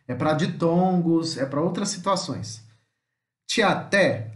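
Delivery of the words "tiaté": Tiaté with the final té stronger; teacher modelling Tiaté; stress on té. Shown as a demonstration. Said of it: "aqui mesmo, ó".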